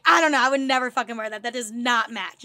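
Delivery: loud, blunt retold verdict; emphatic disapproval. Friend retelling her verdict on the outfit, emphatic disapproval. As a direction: lay down the judgment with punch.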